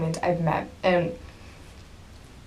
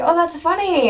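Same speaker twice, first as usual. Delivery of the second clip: high, loud retold delight; delighted reply; 11 semitones higher, 5 dB louder than usual. Retelling a star's reply to a fan, delighted. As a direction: imitate someone tickled by a remark.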